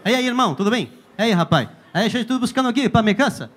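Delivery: bouncy Portuguese-tinged Spanish; dance through the words like a Brazilian; Brazilian accent. Retold or imitated. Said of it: "el brasilero baila cuando habla". (brasileño en la ferretería, acento bailado)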